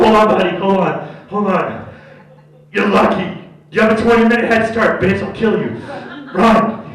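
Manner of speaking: loud menacing taunt; hammed-up tough guy; mock threat. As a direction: threaten him with a head start. Imagined threat to fleeing thief.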